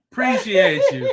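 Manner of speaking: high, loud, playful thank-you. Real, not acted. Host thanking a viewer for dropping the TikTok, playfully effusive. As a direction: thank them big with a laugh in it.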